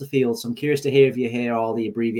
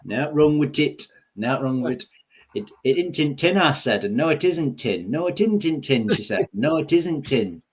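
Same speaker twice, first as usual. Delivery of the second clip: lightly imitated Yorkshire dialect, higher; Yorkshire accent; 4 semitones higher than usual. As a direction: quote it in broad Yorkshire. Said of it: "That's the latest Yorkshire meme".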